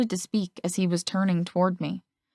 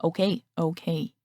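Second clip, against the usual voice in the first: softer, backing-down brother voice; relenting; 3 dB quieter than usual. A narrator's reading. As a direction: give in with a sigh. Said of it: "he relented".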